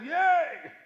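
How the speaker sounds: high, loud, hammed-up cheer; mock cheer. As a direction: cheer back like a game host. Mock cheer back to fan.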